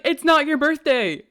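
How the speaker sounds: imitated teasing objection; mock protest. Acts out his teasing back-and-forth.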